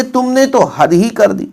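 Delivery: slow, तो and ही leaned on; emphasis on निपात words तो and ही; stress on तो and ही. Shown as a demonstration. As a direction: say तुमने तो हद ही कर दी deliberately. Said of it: "तो ही जोड़ निपात हो जाता है".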